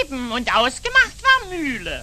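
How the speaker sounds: immer lauter, trotzig hin und her; zunehmend wütender Streit. Acted. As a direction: steigern bis zum Schreien. Streit um Mühle oder Halma. (Streit ums Spiel, immer lauter und wütender)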